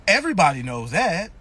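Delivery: low mock statement, pitch falling; mock know-it-all. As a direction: imitate a believer stating it as settled fact. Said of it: "Then they be like".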